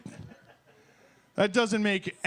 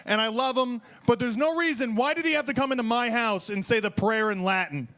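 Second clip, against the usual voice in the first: mock argument; 4 semitones higher than usual. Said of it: "arguing with my wife about".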